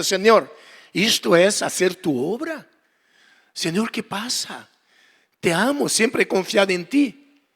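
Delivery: softly retold, slow heartfelt lament; pouring out heart. Pastor retelling his complaint to the Lord, heartfelt pleading. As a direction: plead quietly, as if unburdening to God. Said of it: "desahogando mi corazón".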